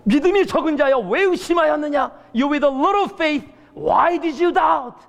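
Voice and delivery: shouted climax line, dragging the English; preaching shout. Retold or imitated. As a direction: cry out the rebuke at full force. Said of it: "외쳤습니다".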